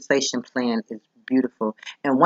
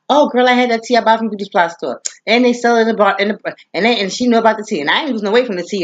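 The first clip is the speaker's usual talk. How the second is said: sister; 5 semitones higher, faster than usual. Retold or imitated. Sister voiced telling about tea.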